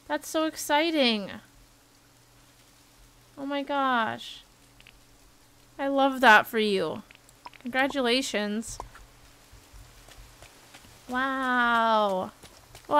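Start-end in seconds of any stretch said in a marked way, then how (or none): none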